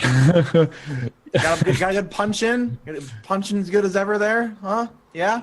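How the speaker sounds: butter him up after a punch; placating joviality. Acted. Edgar praising Weasel's punch, jovial placating.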